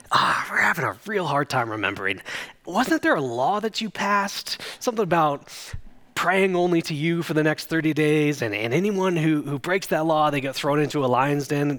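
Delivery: lightly hammed-up pretend forgetfulness; mock feigned ignorance. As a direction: ask it with fake innocence, drawing out the question. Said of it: "this annoying feigned ignorance".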